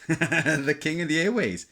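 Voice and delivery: laughing boast. Real, not acted. Old CB radio enthusiast recalls his youthful pride, laughing. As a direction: chuckle through a proud brag.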